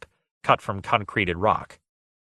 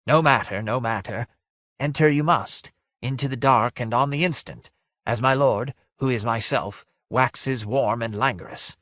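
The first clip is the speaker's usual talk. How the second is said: higher, urging phantom, sinking as it goes; lightly voiced mournful ghost; 3 semitones higher than usual. Ghost orders visitors into the dark, mournful urging. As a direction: urge them in as a sad apparition.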